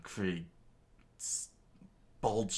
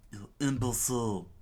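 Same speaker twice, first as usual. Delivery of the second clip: mild mock scream; 4 semitones higher, 4 dB louder than usual. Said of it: "and screamed out".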